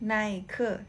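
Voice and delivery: "ไนเคอ" with Chinese tones; Mandarin reading. Shown as a demonstration. Teacher giving the Chinese name for Nike, Mandarin tones. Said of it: "ไนเคอ Nike นะคะ".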